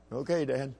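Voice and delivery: soft little reply; imitating obedient son. Young son answering his dad's drill, meek imitation. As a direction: answer meekly as the small boy. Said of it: "lower your voice".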